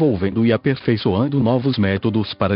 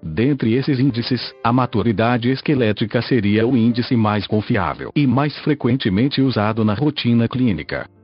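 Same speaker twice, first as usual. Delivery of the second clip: robotic text-to-speech voice. Real, not acted. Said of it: "falo através desta voz sintetizada".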